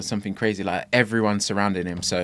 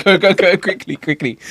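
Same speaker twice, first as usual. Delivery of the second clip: louder, higher urgent push; urgent hurry; 9 semitones higher, 6 dB louder than usual. Retold or imitated. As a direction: shove him forward in a rush. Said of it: "I was like".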